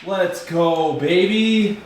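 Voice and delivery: high, hyped cheer; frat bro hype. Real, not acted. Celebrating bolt breaking.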